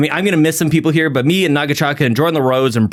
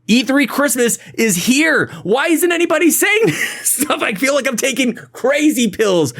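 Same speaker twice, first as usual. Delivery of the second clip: excited; 9 semitones higher than usual. Real, not acted. Gleefully hyping E3 season.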